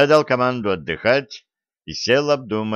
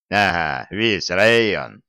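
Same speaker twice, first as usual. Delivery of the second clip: slow, sneering echo of "весь район"; mocking mimicry; slower than usual. A narrator's reading. Soldier mockingly parrots grandfather's "весь район". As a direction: parrot "весь район" back to mock him. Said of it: "передразнил я".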